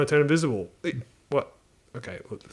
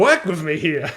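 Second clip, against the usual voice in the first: higher, louder exasperated plea; exasperated genie; 4 semitones higher, 5 dB louder, slower than usual. Acted. Genie begging a picky wisher to cooperate, exasperated. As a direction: plead in mock frustration.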